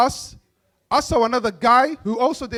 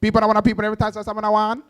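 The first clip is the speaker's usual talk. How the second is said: excited Jamaican dad; much faster than usual. Retold or imitated. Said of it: "Then he get excited".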